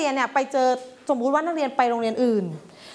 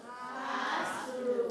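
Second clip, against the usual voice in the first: Where is the classroom, word by word with pauses; slow teaching model; much slower than usual. Shown as a demonstration. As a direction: drill each word separately for the class. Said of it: "แล้วตามด้วยห้องอยู่ที่ไหนคะ".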